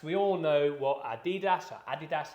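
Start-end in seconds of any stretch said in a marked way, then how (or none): 1.0-1.7 Adidas said one of two ways, stress on DEE; alternative pronunciation. Shown as a demonstration. Presenter offering both ways of saying the brand, Adidas stressed on DEE. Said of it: "however you wanna pronounce it". 1.9-2.3 Adidas said with stress on the first syllable; alternative pronunciation. Shown as a demonstration. Presenter unsure how to pronounce the brand, Adidas stressed on AD. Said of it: "however you wanna pronounce it".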